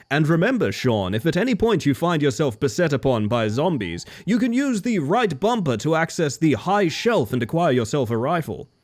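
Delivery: hammy video game tutorial narrator; lightly voiced dopey game guide; dumb tutorial voice. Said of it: "I put on this dumb, dumb voice".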